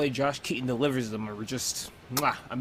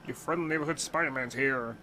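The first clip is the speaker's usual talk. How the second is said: mock Peter voice. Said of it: "use your normal voice".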